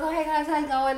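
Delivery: Aussie greeting. Retold or imitated. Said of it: "I'm like".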